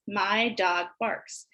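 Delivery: slow, even sentence; slow model sentence. Shown as a demonstration. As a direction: say it slowly while pointing. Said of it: "You say the sentence".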